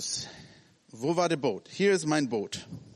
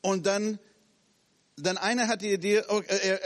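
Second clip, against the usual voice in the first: ordinary delivery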